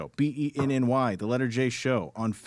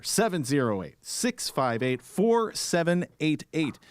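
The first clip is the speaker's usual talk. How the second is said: slow, clear phone number; slower than usual. Shown as a demonstration. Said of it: "we still got that phone number".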